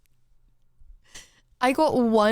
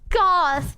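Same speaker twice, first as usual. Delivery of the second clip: spoken word gasp, higher; mock gasp; 5 semitones higher than usual. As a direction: say gasp like a shocked gasp.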